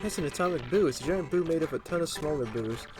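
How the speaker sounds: high-pitched, lilting character read; game partner explaining. Acted. Partner briefs the player on a giant boo, high character voice. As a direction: pitch it up like a little helper character.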